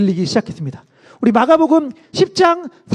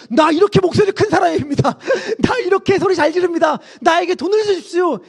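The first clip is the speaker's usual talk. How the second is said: high, raised-voice boast and demand; mock shouting beggar; 6 semitones higher than usual. Imagined beggar demands money from passers-by, mock shouting. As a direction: beg at the top of your voice, pitched high. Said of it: "자기가 막 소리 지르면서".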